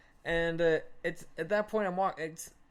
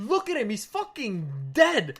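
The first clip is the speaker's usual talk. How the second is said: raised voice slowing to a heavy finish; acted exasperation; 2 semitones higher, 4 dB louder than usual. Storyteller confronting friends over drunk buddy, exasperated raised voice. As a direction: argue it incredulously, dragging out the last words.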